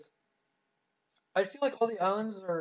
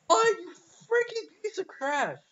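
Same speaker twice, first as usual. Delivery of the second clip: high, slow, whiny put-on voice; mock insult; 12 semitones higher, 6 dB louder, slower than usual. Sneering at the player who took his sword, hammed-up. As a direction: drag it out in a sneering fake voice.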